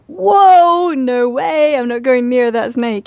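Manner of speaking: high, startled recoil from the snake; body's frightened voice. Retold or imitated. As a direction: voice the body balking in fright, pitched high. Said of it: "And my body went".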